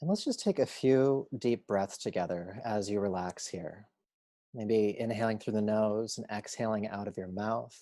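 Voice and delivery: unhurried meditation guide voice; calm, measured yoga teacher guidance; guided relaxation. Acted. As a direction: lead them gently into rest, leaving long pauses.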